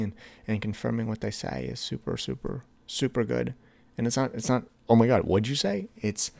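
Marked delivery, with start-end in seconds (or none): 4.9-5.9 louder, affronted challenge; mock indignant. Partner wrongly challenging what was said, mock indignant. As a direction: exaggerate taking offence, with a burst of volume.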